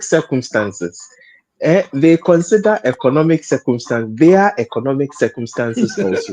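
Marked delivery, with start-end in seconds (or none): 4.2-6.3 words tipping into a real laugh. Real, not acted. Panelist on police officers' economic circumstances, starting to laugh. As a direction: let a chuckle take over the end. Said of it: "that is what is making me laugh".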